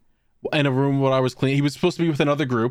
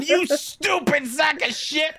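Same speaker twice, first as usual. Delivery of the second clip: high, slow insult through laughter; laughing insult; 13 semitones higher, slower than usual. Retold or imitated. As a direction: laugh it out while calling him stupid. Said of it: "as I'm just hysterical".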